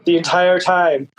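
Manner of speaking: slow, smug villain boast; the author jokes to fans about having planned everything; mock mastermind. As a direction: savor the fake evil genius claim. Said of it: "And I'll be like".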